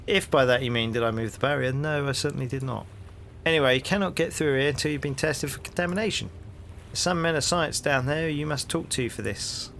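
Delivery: hearty London copper, rising into the question; cheery Cockney policeman greeting a stranger; cockney bobby. Acted. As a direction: play the nosy beat cop on his rounds. Policeman denies.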